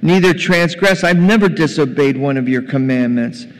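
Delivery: loud, indignant complaint; acted resentful son airing his grievance; angry elder son. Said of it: "He's angry".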